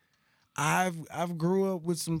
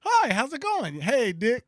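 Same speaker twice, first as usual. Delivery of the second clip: high, loud squeaky cartoon greeting; put-on falsetto hello; Mickey Mouse; 8 semitones higher, 6 dB louder than usual. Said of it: "sound like Mickey Mouse".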